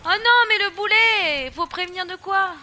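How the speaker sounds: loud despairing cry; wailing dismay. Real, not acted. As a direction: wail at the lost cause. Dismay as character is taken.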